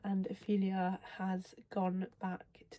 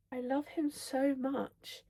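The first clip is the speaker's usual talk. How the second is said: slow, higher-pitched swoon; gushing adoration; 5 semitones higher, slower than usual. Real, not acted. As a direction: stretch it out, besotted with him. Gushing over a favourite character.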